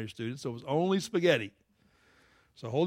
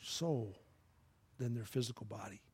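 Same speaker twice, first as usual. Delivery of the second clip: closing prayer. Acted. Pastor prays for the church to be bold. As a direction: pray over the congregation gently.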